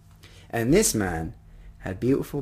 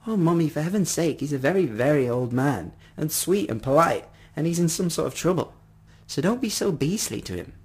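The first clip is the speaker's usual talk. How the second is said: higher-pitched, mildly reproachful appeal; pleading child; 5 semitones higher than usual. Acted. Daughter begging Mummy to be kinder, mildly pleading. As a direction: plead with Mummy on someone's behalf.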